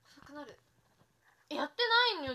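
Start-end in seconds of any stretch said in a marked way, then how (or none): 1.5-2.3 protesting. Real, not acted. Insisting she isn't editing.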